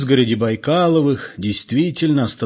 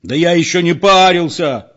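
higher, louder protesting shout; raised, outraged voice; indignant yell; 7 semitones higher, 6 dB louder than usual. A narrator's reading. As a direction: yell out in exasperation. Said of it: "заорал спокойный Петро".

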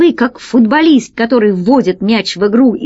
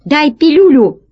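higher, urgent demand, lightly yelled; mild yell; 5 semitones higher than usual. A narrator's reading. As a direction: demand it like a pirate in trouble. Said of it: "завопил весельчак У". (негромкий требовательный вопль)

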